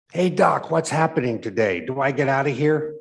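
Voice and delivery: calling out. Acted. Patient calls across room to the medic, loud. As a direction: call out eagerly to the doc.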